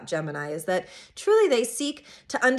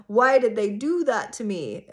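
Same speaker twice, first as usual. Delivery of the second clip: aggrieved, taking it personally; resentful why me. Shown as a demonstration. Self-help speaker showing the wrong way to ask, aggrieved. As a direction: ask it like it was done to you on purpose. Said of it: "But not from, like, a".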